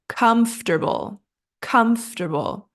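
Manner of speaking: COMFORTABLE as KUMF-ter-bul; quick middle syllable. Shown as a demonstration. Teacher models three syllables, COMFORTABLE as KUMF-ter-bul. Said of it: "middle part is pronounced quickly".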